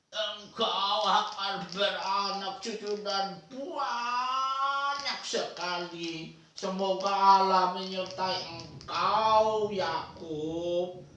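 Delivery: put-on slow, soft old man blessing; lightly played frail grandfather; old grandpa voice. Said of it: "meniru gaya kakek-kakek". (suara kakek-kakek yang lambat)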